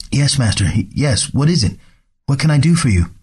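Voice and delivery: put-on nervous young servant rushing in; hunchback assistant. Servant answers flustered master.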